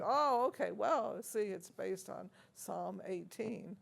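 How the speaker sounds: imitating Madame Tournemire. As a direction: mimic her curt matter-of-fact tone. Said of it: "And she said".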